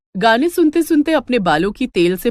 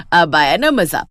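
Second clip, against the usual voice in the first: triumphant gloat; 5 semitones lower than usual. Acted. Mother-in-law triumphs.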